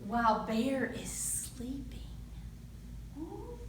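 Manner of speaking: put-on lively read-aloud for young kids; storytime narration. A narrator's reading. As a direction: tell it like a picture book at the library. Reads picture book to children.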